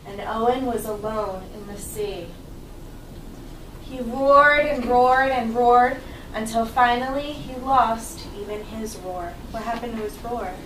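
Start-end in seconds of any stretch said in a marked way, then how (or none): 0.0-9.3 put-on reading to children. Teacher reads story to children.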